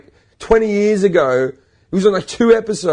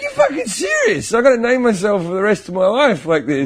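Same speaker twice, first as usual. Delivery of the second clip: incredulous; 4 semitones higher than usual. Retold or imitated. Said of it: "And I'm like".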